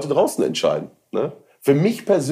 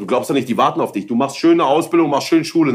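higher, louder mother voice; nagging mother; 4 semitones higher, 4 dB louder than usual. Retold or imitated. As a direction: scold like a worried mum. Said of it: "meine Mutter hat immer gesagt".

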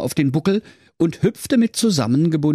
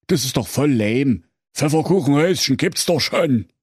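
put-on lightly raised dismissive boy voice; Hänsel voice; 4 semitones higher than usual. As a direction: wave it off, a bit higher than the narrator. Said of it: "Hänsel winkte ab und sprach".

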